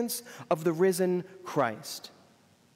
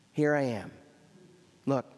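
smiling Jesus; 5 semitones lower than usual. Retold or imitated. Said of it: "you can just hear the smile in his eyes".

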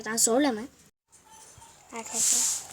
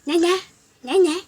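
imitating baby sound; 5 semitones higher, 7 dB louder than usual. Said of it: "Böyle ses çıkıyor arkadaşlar".

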